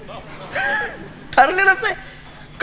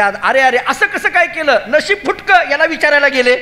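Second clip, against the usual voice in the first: laughing complaint; 4 semitones higher than usual. Acted. Gopi complains laughing about Krishna.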